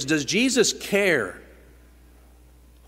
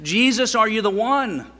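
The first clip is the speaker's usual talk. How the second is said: confused John; 8 semitones higher, 5 dB louder than usual. Retold or imitated. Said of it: "Confusion on John's part".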